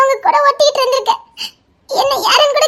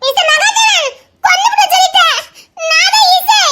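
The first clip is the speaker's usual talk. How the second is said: high tearful cry of accusation; tearful shouting; 5 semitones higher than usual. Acted. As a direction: shout his name through sobs. Girl shouting accusation through tears. (அழுகையுடன் கத்துதல்)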